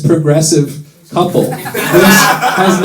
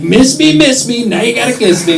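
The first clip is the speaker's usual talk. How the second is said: higher, singsong cocky Trump taunt; 6 semitones higher than usual. Retold or imitated. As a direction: tease them like you can't be hit. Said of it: "he's just getting cocky, like".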